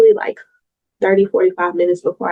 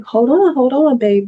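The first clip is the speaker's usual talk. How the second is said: voicing her body, pitched up high in alarm; body's alarmed voice; 5 semitones higher than usual. Her body voiced as it tries to stop her, a high startled plea. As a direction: play the nervous body calling for a stop. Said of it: "my body is physically reacting like".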